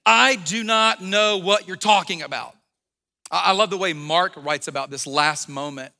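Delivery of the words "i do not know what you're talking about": emphatic, slow, louder denial; Peter's fed-up, slowed-down, forceful denial; exasperated denial. Retold or imitated. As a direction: insist you don't know him. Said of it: "Peter replied".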